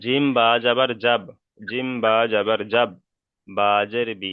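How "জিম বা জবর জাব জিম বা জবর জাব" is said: teacher's measured recitation ending on "জাব"; corrective spelling demo. Shown as a demonstration. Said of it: "বা নয়".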